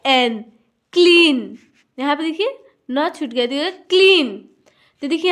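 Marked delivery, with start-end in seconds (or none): 0.9-1.6 क्लीन with a drawn-out ee; long ee. Shown as a demonstration. Teacher reading an EA word, stretched क्लीन. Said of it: "बड़ी ई". 3.7-4.4 क्लीन with a held ee; long ee. Shown as a demonstration. Teacher repeating an EA example, stretched क्लीन. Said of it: "बड़ी ई".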